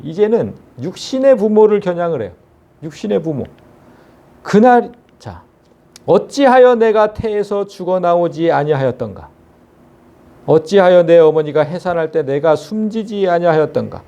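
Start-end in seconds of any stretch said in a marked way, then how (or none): 6.0-14.0 measured, solemn Bible reading; scripture reading. Acted. Preacher reads Job's lament to the congregation, solemn.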